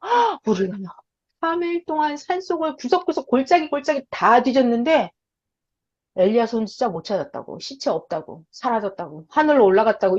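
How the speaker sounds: breathless report. Acted. Disciples report back breathless.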